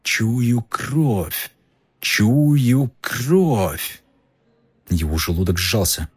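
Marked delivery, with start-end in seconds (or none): 0.0-4.0 hushed, fading murderous chant; a hungry beast drifting away; fading icy monster voice. Acted. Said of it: "всё слабеющий голос".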